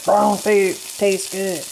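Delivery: slow, drawn-out catchphrase; a slow, savoured food-lover's line; Amber Elle's catchphrase. Retold or imitated. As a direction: say it slowly the way she does. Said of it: "that's how she said it".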